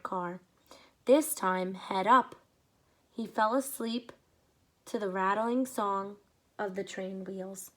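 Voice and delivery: lively read-aloud storytelling; story narration. A narrator's reading. Reading a story aloud to children, lively. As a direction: read it to the kids, paint each scene.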